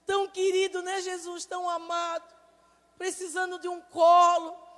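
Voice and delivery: slow, tender prayer rising to a loud cry. Retold or imitated. Mother praying over the weeping son, tender then swelling. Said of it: "eu só disse".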